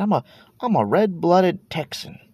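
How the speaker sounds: put-on playful good-ol'-boy Texan accent; mock Texan drawl. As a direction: lean into a proud Texan twang, half-joking. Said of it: "Why am I talking like that?".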